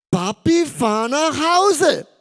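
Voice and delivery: high, loud, drawn-out whiny demand; the son insists angrily; aggressive demand. Retold or imitated. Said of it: "Seine Stimme wurde so richtig aggressiv".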